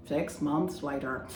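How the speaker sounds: slow mock narrator, lightly put on; time-skip narrator. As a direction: say it slowly, like a title card. Time-skip caption, second take.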